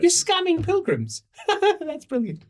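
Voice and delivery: laughing delight, high. Real, not acted. GM laughing at the players' pilgrim scam. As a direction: crack up in admiration.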